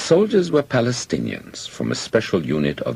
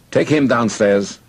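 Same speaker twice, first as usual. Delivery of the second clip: loud, high, slow order; commanding; 9 semitones higher, 6 dB louder, slower than usual. A narrator's reading. Officer pointing out a prisoner to soldiers, commanding. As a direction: order it loudly and slowly.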